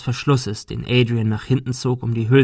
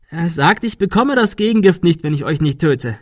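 high, anguished explanation; desperate; 6 semitones higher, 4 dB louder than usual. A narrator's reading. Adrian explaining the deadly bargain to Thomas, desperate. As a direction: plead to be understood. Poisoned man explains the threat.

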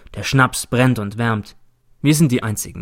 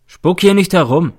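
grinning scold; 7 semitones higher, 7 dB louder than usual. A narrator's reading. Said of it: "grinst die Dicke".

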